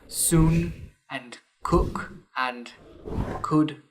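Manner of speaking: soon and cook and could all with the short oo of "cook", said slowly; Northern vowel demo. Shown as a demonstration. Teaching a northern vowel to actors, slow careful demo. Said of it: "is the same as the vowel in words like".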